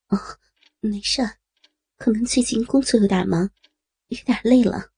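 mildly evasive, tired excuse; perfunctory. Acted. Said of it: "孙平敷衍道". (轻声敷衍地回答)

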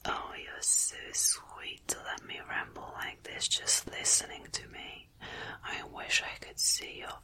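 very soft, close-up whisper; playful teasing whisper. Pretend. Leaning in to tease the listener, playful intimate whisper. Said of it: "more playful, leaning in close and teasing you".

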